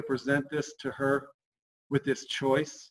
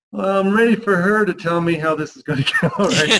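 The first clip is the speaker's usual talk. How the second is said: wishy-washy; 4 semitones higher, 7 dB louder than usual. Shown as a demonstration. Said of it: "We, we get wishy-washy".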